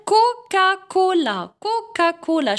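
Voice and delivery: teacher showing the k sound in "كوكا كولا"; example word sounded out. Shown as a demonstration. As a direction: say "كوكا كولا" twice, first slowly, stretching each vowel. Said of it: "نعطيكم مثال".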